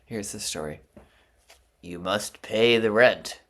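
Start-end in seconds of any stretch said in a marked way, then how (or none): 1.8-3.4 slow, loud, sneering villain; sneering panto villain. Acted. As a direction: twirl the moustache and demand it. Melodrama villain demanding rent.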